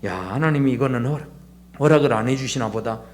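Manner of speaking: low, subdued mumble to oneself; inward fretting. Acted. Believer privately fretting over an unanswered prayer, low inward mumble. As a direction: keep it low and soft, like a private worry. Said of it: "속으로 끙끙 앓으면서".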